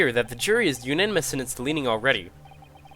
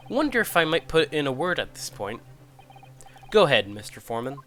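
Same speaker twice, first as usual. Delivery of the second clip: lightly voiced old British army chap; a hint of a blustering retired officer; old soldier foreman; 3 semitones lower than usual. Retired soldier foreman addresses court.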